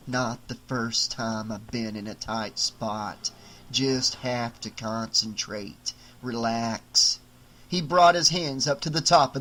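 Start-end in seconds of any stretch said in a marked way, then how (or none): 0.1-7.2 lower, slow doll voice, puzzled in the dark; a small doll muttering to himself, slowly; trapped doll. Acted.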